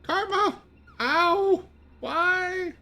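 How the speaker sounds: high startled yelp of pain; surprised yelp. Real, not acted. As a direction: cry out, hurt and baffled. Hit in game, yelping.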